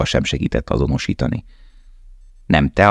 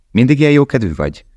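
Aron's voice; 9 semitones higher, 4 dB louder, faster than usual. Acted. Aron asking Lale.

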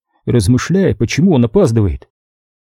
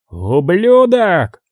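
slow, drawn-out mock roar, higher; roared curse; 7 semitones higher, much slower than usual. A narrator's reading. Boss cursing the hitman who hung up, mild roar. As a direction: stretch the insult out in understated fury. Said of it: "взревел Харрисон".

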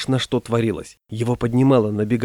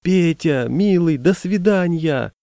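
high, drawn-out goodbye call; acted shout to someone left on shore; calling out farewell; 6 semitones higher, slower than usual. A narrator's reading. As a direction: call a fond goodbye across the water. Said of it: "вдруг стали кричать".

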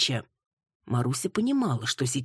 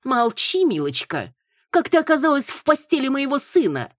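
much higher, loud shrill command; louder tense mother yelling; nervous angry shout; 10 semitones higher, 5 dB louder than usual. A narrator's reading. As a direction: shout her down, rattled. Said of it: "нервно откликнулась женщина".

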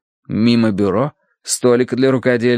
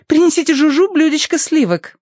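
high imperious lady; haughty order. A narrator's reading. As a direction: snap out an order. Tossie orders the butler.

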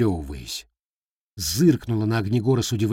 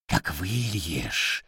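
deep demon voice; 5 semitones lower, 5 dB quieter, much slower than usual. Acted. Repeated phrase, slow demon.

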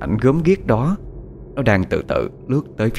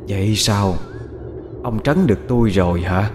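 gloomy ghost voice. Acted. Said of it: "cất tiếng nói âm u".

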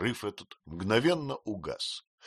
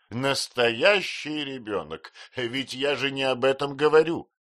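impatient exclamation; 6 semitones higher, 5 dB louder than usual. A narrator's reading. Aunt corrects the confused mother, impatiently. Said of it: "нетерпеливо воскликнула мисс Бетси".

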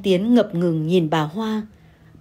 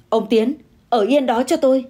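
sharp command; 4 semitones higher, 3 dB louder than usual. Acted. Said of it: "Bà Hoa liền quát".

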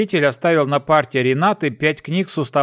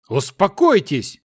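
higher and slower call for calm; raised slow calming shout; 5 semitones higher than usual. A narrator's reading. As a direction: cut the quarrel, slow and raised. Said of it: "крикнул Аберон".

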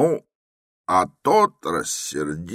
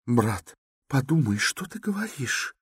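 hot-tempered; 9 semitones higher than usual. A narrator's reading. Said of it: "вспыльчиво начала была Авдотья Романовна".

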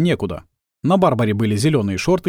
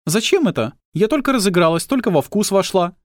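puzzled; 8 semitones higher than usual. Acted. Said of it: "недоумевала партнёрша".

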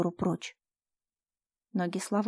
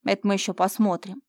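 threatening hiss; 4 dB louder than usual. Acted. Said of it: "с угрозой прошипел".

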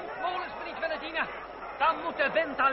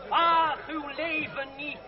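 public oration; slower than usual. Acted. André calming the citizens, public oration. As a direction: hold the crowd's attention. Orator addresses crowd again.

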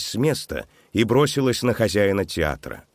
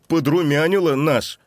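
squeaked out high; пискляво; squeaky; 8 semitones higher, 5 dB louder than usual. A narrator's reading. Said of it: "запищал Антон".

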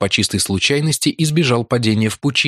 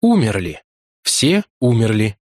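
monotone. Acted. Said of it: "монотонным голосом проговорил он".

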